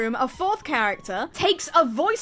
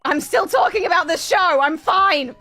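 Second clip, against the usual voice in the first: manic excitement; 4 semitones higher, 3 dB louder than usual. Real, not acted. Manic self-aware rant.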